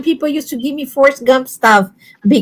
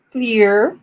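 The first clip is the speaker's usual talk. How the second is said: "Clear" drawn out in a fancy British way; mock posh "clear"; 4 semitones lower, 3 dB quieter than usual. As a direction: tease the word "Clear" as if terribly posh. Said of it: "How fancy that word there".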